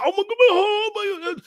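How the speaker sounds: high, panicked cry; imitating his own panicked cry about his heart. Retold chest pain panic.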